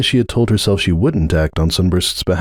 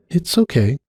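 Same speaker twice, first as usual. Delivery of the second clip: gentle; 7 semitones higher than usual. Acted. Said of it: "Cupcake said gently".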